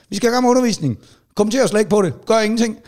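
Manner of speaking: high, firm teacher command; stern teacher. Retold or imitated. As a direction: lay down the law to the class. Teacher addressing the class.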